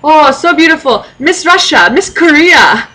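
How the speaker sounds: high, gushing compliments in broken English; smitten old man. Retold or imitated. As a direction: fawn over her like an old admirer. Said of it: "he goes".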